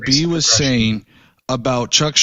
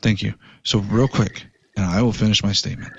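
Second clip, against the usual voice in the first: calmer, gentler; 5 semitones lower, 5 dB quieter than usual. Real, not acted. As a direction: lower and softer, calmed down. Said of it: "you talking a little bit more gentle".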